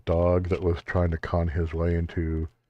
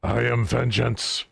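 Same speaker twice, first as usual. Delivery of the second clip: lightly voiced shadowy vigilante; dark voice; 4 semitones higher than usual. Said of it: "this dark voice from the shadows".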